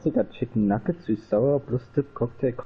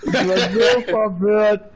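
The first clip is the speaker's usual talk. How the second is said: exaggerated confusion; 9 semitones higher, 5 dB louder, slower than usual. Joking about own confusion.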